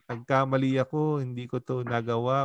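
sweet, sheepish sorry with a smile; a hint of a grinning nephew owning his mistake; smiling apology. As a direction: charm her with a humble grin. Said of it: "with all smile".

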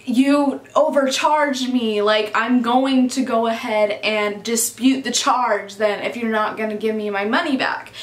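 measured and deliberate, quoting a dissatisfied customer; retold firm complaint. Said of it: "Brendan's like this".

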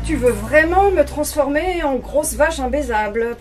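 wife's mock protest to her husband. A narrator's reading. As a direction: tease him while pushing back. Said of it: "protesta Simone".

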